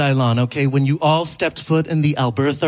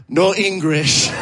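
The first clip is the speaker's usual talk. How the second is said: slow, higher fake broken English; mock no english; 4 semitones higher, slower than usual. Comic faking no English to the angry man, pitched higher. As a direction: feign not speaking English. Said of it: "here is how that interaction went".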